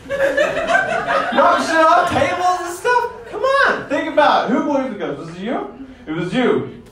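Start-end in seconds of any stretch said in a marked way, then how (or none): 0.1-3.1 slow ghost. Pretend. Ghost acting out.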